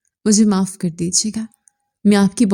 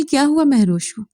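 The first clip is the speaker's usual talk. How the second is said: pitched higher, pleading and frantic; 6 semitones higher than usual. Acted. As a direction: demand an answer in panic. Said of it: "उसे झंझोड़ा". (घबराकर ऊँची आवाज़ में पूछना)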